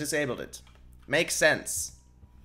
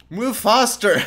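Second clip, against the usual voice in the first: laughing shout; 8 semitones higher, 9 dB louder, slower than usual. Real, not acted.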